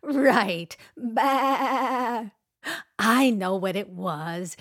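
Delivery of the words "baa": sheep baa. Retold or imitated. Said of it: "What does a sheep say".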